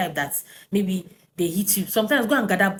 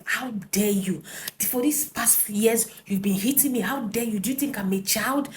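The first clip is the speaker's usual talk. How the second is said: retold shouting; 3 semitones higher than usual. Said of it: "I started shouting at him".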